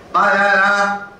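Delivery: Banana drawn out slowly with syllables run evenly; wrong word stress. Shown as a demonstration. Teacher shows what isn't English, Banana slow and evenly stretched. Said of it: "None of those are English".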